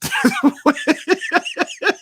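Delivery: a high, bright burst of laughter; high amused laugh. Real, not acted. Host laughing at a viewer's comment, high laugh. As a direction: crack up at the comment.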